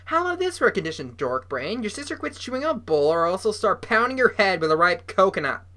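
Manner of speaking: fast taunting sneer. Acted. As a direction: sneer the threat. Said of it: "sneered his famous sneer".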